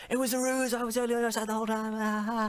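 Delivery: high, put-on lawyer voice; a smug lawyer's reveal. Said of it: "the lawyer was like".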